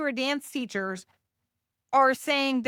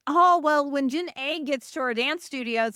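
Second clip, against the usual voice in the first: raised, louder mock of studio owners; imitating studio owners; 5 semitones higher, 3 dB louder than usual. Dance teacher quoting clueless studio owners, mock voice. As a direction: lightly put on a studio owner's voice, pitched up. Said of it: "they're sitting there going".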